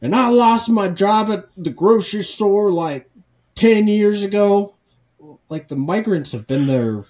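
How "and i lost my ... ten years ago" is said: hammed-up complaining woman; mock tweaker woman. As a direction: whine it like a bitter local. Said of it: "she's like".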